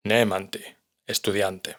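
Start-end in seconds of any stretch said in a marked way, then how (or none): 0.1-0.6 Nemandi stressed on the first syllable, NE-mandi; Icelandic word demo. Shown as a demonstration. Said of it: "el acento siempre lo lleva la primera sílaba". (Nemandi con el acento en la primera sílaba, NE-mandi)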